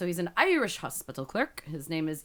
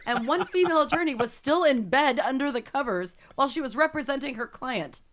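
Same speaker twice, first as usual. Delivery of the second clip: higher, emphatic quote reading; article read aloud; 6 semitones higher, 4 dB louder than usual. Acted. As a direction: read it out to relish the scandal.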